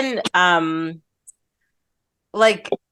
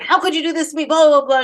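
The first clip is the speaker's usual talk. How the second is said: mild mock yell, higher pitched; half-hearted high-pitched scolding; retold yelling; 5 semitones higher, faster than usual. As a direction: imitate a screaming wife without real volume. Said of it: "she's yelling and screaming about him".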